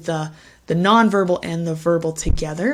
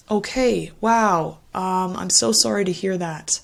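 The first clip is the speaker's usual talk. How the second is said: sympathetic response. Shown as a demonstration. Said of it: "empathetic response to something negative".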